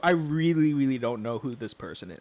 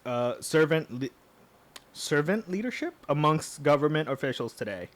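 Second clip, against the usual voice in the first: lightly put-on Southern accent; Southern-accented candidate statement. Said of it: "go with a southern accent there".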